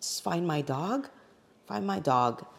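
quiet, pleading request; softly pleading. Retold or imitated. Asking a friend to find her dog, softly. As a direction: murmur it, dazed and begging. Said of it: "I think I said".

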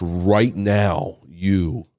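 slow, halting, holding back emotion; real choked up. Real, not acted. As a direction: fight through the lump in your throat, slowly. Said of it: "I'm gonna get choked up".

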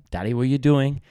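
put-on questioning toddler. Dad mimicking his daughter questioning everything, high child voice. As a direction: pipe up like a curious little kid. The daughter asks once more.

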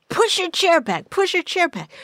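high, urgent mock order to push the seat back; urgent boyfriend order. Boyfriend ordering her during a car chase, urgent high voice. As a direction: bark it like he's in a hurry. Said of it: "the guy that I was with said".

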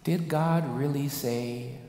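slow, insinuating Did God really say; a hint of the sly serpent; tempting serpent. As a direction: coax doubt like Satan. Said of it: "he asked Eve".

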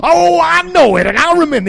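a hint of a gossiping complainer; mock gossip. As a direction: play the complaining friend, lightly. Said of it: "gossiping ... whine with you".

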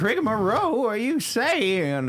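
high, put-on Southern old lady; Southern grandma voice. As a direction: play a twangy old grandma. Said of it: "You just sound like a grandma".

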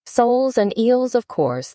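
mildly impatient, high start dropping away; a touch of impatience; rather impatient. A narrator's reading. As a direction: answer as if it were obvious. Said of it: "replied rather impatiently".

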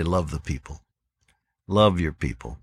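put-on quiet earnest plea to young pastors; tender advice. Shown as a demonstration. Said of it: "I would shorten that sentence and just say".

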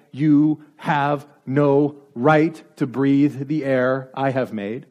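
slow, measured mild disdain; disdainful superiority. Acted. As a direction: pronounce it slowly, word by word, looking down on them. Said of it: "look at you with disdain".

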